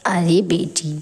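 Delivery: calm the hurt daughter down; soothing mother. Acted.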